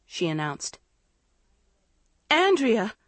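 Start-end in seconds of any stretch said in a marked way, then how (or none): 2.3-3.0 high-pitched cry of horror; horrified, betrayed exclamation. A narrator's reading. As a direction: cry out the name, aghast. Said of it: "Maggie cried in horror".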